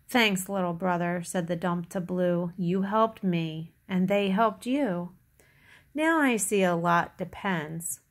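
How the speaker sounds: put-on measured read-aloud for little children; story narration. A narrator's reading. Reader tells children about Little Blue Truck, storytelling. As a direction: read it out like a picture book. Reads picture book to children.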